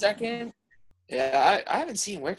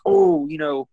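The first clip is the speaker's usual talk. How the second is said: mocking high voice; 6 dB louder, slower than usual. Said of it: "I can't really say, like".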